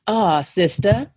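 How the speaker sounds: a light, slow drawn-out "Ah, sister"; mock condescending sister. White guys calling her sister, lightly mimicked. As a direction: imitate a patronizing man greeting her. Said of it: "white guys".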